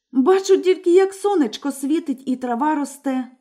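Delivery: put-on older sister calmly reporting. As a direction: answer simply from the tower.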